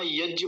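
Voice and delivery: यज्ञ as a flattened yajj, nothing after the j; wrong example: drop the glide in यज्ञ; common mistake. Shown as a demonstration. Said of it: "एक गलती हो जाती है". (यज्ञ का गलत उच्चारण)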